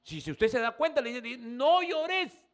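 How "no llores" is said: much higher and louder angel voice; quoted angel, no llores. Retold or imitated. Preacher voicing the angel to weeping John, high and loud. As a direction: ring it out as the angel's command. Angel's words, climax of retelling.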